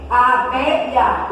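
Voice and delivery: "A abelha" with a strong "be"; teacher showing the stressed "be" in "abelha". Shown as a demonstration. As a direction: punch the middle syllable of "abelha". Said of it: "O som forte está no bé".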